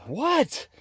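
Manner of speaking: high, fast mock protest; high playful protest. Real, not acted. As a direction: squeak it up to the hen, quickly. Talking back to pecking hen.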